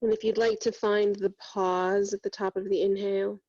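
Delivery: even-pitched meditation voice with long pauses; guided meditation. Real, not acted. Yoga teacher guiding students through breath and body scan, meditative. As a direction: guide them inward steadily, leaving long silences between phrases.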